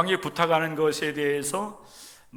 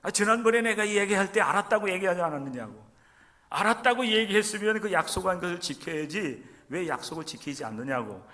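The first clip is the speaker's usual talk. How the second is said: complaining protest; 4 semitones higher than usual. Retold or imitated. Outsider confronts Chungcheong man over broken promise, mock indignant. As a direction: press them like a cheated friend. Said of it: "이렇게 막 따져요".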